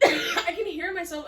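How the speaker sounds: laughing, high and loud. Real, not acted. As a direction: laugh through it. Laughing about own wheezing.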